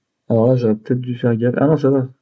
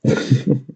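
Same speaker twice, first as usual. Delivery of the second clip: nervous laugh. Real, not acted. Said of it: "c'est un rire nerveux".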